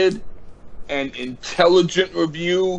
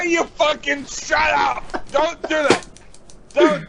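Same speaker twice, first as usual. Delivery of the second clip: higher, urgent protest, half laughing; pleading protest; 9 semitones higher than usual. Real, not acted. To a friend threatening to name the album, urgent higher protest.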